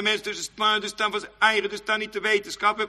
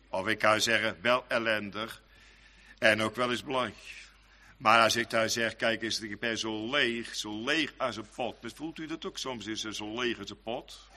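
softer and lower, desolate; hushed preaching; 10 semitones lower, 6 dB quieter than usual. Acted. Preacher describes feeling empty as a pot, softer and lower. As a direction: sink into emptiness.

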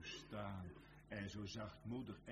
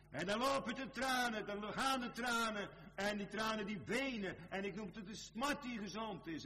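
loud, high pulpit cry; impassioned preaching; 13 semitones higher, 8 dB louder than usual. Acted. Preacher describing Peter's flowing tears, impassioned preaching. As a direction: ring it out high, easing slightly toward the end.

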